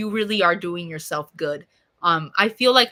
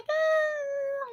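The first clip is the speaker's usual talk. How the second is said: dismissive eh; 4 dB quieter than usual. Real, not acted. Dismissing the idea of moving.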